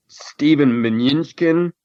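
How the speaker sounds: "Mnuchin" said slowly as min-YUN-chkin; variant name pronunciation. Shown as a demonstration. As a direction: add a Y glide to "Mnuchin", min-YUN-chkin, high and slow. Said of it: "pronounce his name a different way".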